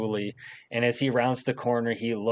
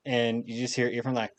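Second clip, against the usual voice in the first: ordinary talk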